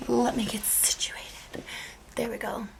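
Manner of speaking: soft unvoiced aside to herself; muttered aside. Real, not acted. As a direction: whisper it under your breath. Adjusting camera mid-tutorial.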